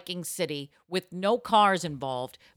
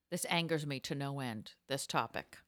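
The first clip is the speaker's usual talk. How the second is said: quiet anger; 7 semitones lower, 11 dB quieter than usual. Acted. Quiet seething about bikes.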